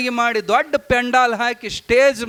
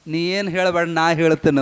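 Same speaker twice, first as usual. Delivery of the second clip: lower, settled voice of the guru reassuring his disciple; calm guru reply; 4 semitones lower than usual. Acted. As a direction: say it low and steady as the master. ಅಪ್ಪನ ಬಾಯಾಗ ಬಂದ ಮಾತು.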